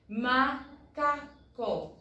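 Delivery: "macaco" very slow, as ma, ca, co; syllable by syllable. Shown as a demonstration. Teacher counting syllables for the class, syllable by syllable. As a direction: break "macaco" into three separate syllables.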